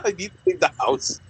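high-pitched, laughing through the words. Real, not acted. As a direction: repeat it while cracking up. Laughing while repeating own complaint.

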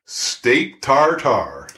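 slow, relishing each word; savoring. Acted. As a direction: draw it out lovingly. Dog savors food name.

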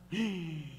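long sharp intake of breath; hungry sniff. Acted. Person fasting smells beans, drawn-in gasp.

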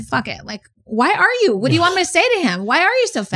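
high, fast, fed-up outburst; fed-up retort. Retold or imitated. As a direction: let it rip, done being polite. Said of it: "she just said".

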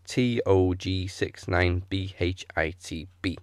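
slow, each letter and number separate; slowly spelled out. Shown as a demonstration. Host repeats the handle in case you missed it, slowly. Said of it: "I'll say that slowly just in case".

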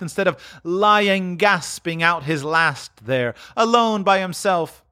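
high, fast, contemptuous; bitter old thief; scornful woman. Acted. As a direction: sneer at the dead man.

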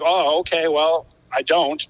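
slow, halting, mildly stunned reply; dumbfounded. Retold or imitated. Drummer at a loss after an insult, dumbfounded. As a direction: stall as if lost for words. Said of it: "I was dumbfounded".

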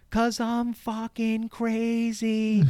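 high, slow, yelled rant at the handyman; hammed-up crazy yelling, high and drawn out; screaming rant. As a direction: scream it out like you've lost it. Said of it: "even louder than before".

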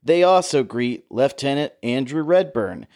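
like a World War Two newsreel narrator; old newsreel. Retold or imitated. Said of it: "World War Two newsreel voiceover".

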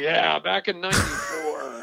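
put-on slow, creaky old-timer voice; old prospector. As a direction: play a grumpy old-timer looking back. Mock old-timer reminiscing.

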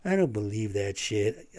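mock denier voice. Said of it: "fuckers out there that are like".

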